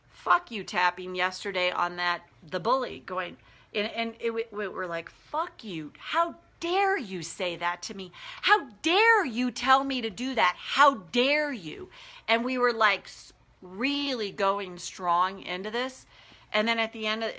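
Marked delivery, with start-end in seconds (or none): 5.1-11.9 defiant anger. Retold or imitated. Angry tapping retort to bully.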